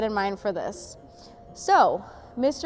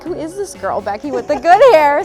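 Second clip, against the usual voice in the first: sassy quote; 5 semitones higher, 11 dB louder than usual. Retold or imitated. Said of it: "So I was like".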